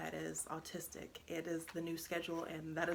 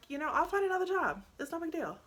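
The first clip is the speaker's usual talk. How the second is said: high, loud, quick upbeat dismissal; retold mom cheerfully waving away a worry; breezy reassurance; 12 semitones higher, 8 dB louder, faster than usual. Mother reassuring her son about losing her job, breezy and emphatic.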